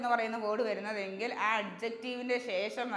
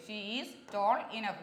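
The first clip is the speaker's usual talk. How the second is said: slow model sentence; much slower than usual. Shown as a demonstration. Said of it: "ഇതാണ് ശരി".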